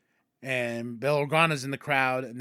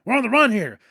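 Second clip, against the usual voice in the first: frantic shushing; 9 semitones higher, 6 dB louder than usual. Retold or imitated. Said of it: "And Ahsoka's like".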